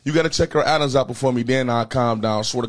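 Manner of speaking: loud, fast riled-up complaint. Real, not acted. Host still riled up.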